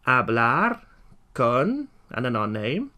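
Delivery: teacher spelling out the phrase in parts; phonetic model. Shown as a demonstration. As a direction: break the phrase up for learners to copy. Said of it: "try and follow the phonetics".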